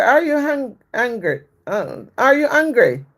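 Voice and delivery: high mock question. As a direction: imitate asking in a high little voice. Her sweet question to the shouter.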